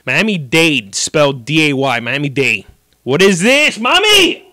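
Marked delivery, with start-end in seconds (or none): 3.0-4.5 put-on high squealing child's voice; a frightened little boy begging his mom, shrieking; scared kid. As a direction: kid shrieking no at the doctor's office. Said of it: "I'm like".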